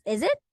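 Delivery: "Is it?" with the s buzzed as Z; voiced Z in "Is it?"; Z pronunciation. Shown as a demonstration. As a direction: say "Is it?" like "izzit". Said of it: "pronounced as a Z sound".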